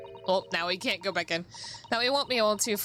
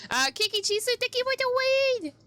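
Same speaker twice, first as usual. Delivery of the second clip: squeaky thank you. Acted. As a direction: pipe it up like a cartoon critter. Thanking a chatter, cutesy voice.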